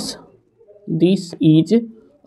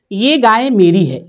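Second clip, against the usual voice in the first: slow example reading; 4 semitones higher, slower than usual. Shown as a demonstration. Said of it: "ठीक है".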